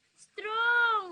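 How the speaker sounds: Strong! shouted with a falling punch; loud cheer. Shown as a demonstration. Mother shouting Strong! to show her son the pose. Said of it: "Paano yung strong?".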